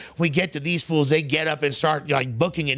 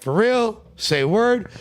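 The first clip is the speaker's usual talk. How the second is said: shocked disbelief; 7 semitones higher, 4 dB louder, slower than usual. Retold or imitated. Hearing friend was called slur.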